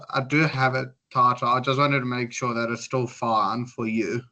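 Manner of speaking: ordinary delivery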